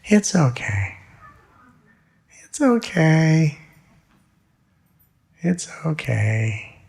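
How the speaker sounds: put-on sing-song it gently like soothing a child; tender lullaby, drawn out slowly; little lullaby. Shown as a demonstration. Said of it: "I like to say it almost like a little lullaby".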